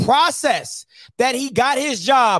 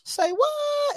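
high, much softer quoted "say what"; imitating a baffled friend; incredulous mock reply; friend's reply; 13 semitones higher, 6 dB quieter than usual. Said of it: "And he was like".

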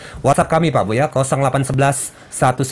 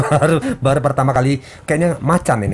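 laughing. Real, not acted. Laughing about tiger avatar.

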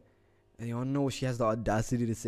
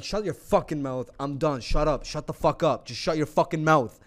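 mildly heated retold telling-off, building louder; retold angry outburst; 2 semitones higher, 5 dB louder than usual. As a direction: re-enact losing your temper, without screaming. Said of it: "started screaming by itself".

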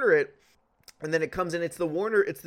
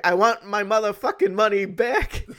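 mock furious demand; 4 semitones higher, 7 dB louder than usual. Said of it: "I'm like".

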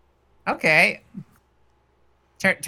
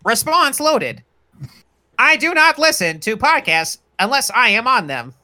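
robot voice. Acted. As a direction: speak like a computer program. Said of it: "this robot in this".

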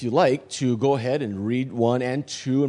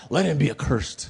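grave pronouncement. Acted. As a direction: voice drops to a measured curse. Paul's curse, dropped for weight.

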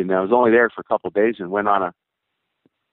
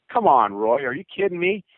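annoyed; 6 semitones higher than usual. Retold or imitated. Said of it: "I was really pissed".

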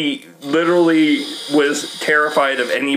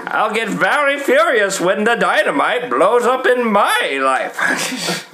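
mustache twirling villain; 6 semitones higher than usual. Pretend. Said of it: "Dick Dastardly character".

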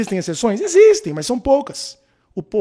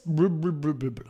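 censor babble; 6 dB quieter than usual. Shown as a demonstration. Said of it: "eu não vou usar porque seria desmonetizado".

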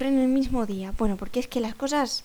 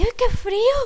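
higher, louder mock moan; acted cold complaint; 9 semitones higher, 5 dB louder than usual. Older woman in the bus queue to a stranger, loud complaint. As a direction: exclaim it like a chilly older lady.

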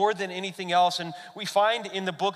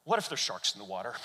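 lower, softer, quick worried question; small scared voice; 9 semitones lower, 6 dB quieter, faster than usual. Retold or imitated. Daughter asking dad about sharks, small and quiet. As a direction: ask it like a nervous kid.

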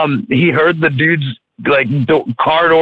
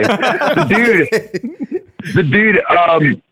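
laughing fit; 5 semitones higher, much slower than usual. Real, not acted. Laughing fit before resuming.

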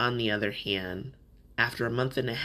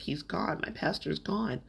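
falling apart; 4 semitones higher, 4 dB quieter than usual. Retold or imitated. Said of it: "I'm just falling apart".

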